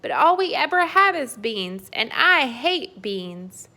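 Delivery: loud, high whine, slowing at the end; giant's whiny complaint. Acted. Giant complains about beans.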